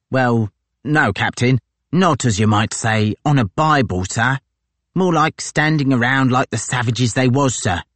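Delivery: a gloating sergeant pleased with himself; brash marine sergeant. Acted. Tozer to his captain, brash and gloating.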